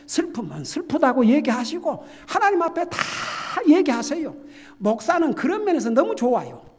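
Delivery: rising exhortation to hold nothing back; preaching at full force. Acted. Pastor urging the congregation to tell God their sorrows, in a loud, rising, fervent voice.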